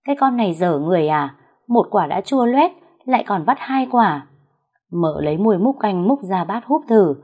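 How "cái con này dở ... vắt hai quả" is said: mildly irritated scolding, pitched higher; mother-in-law scolding over sour soup, lightly voiced; frowning scold. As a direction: grumble at the girl with a frown. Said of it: "chau mày nói".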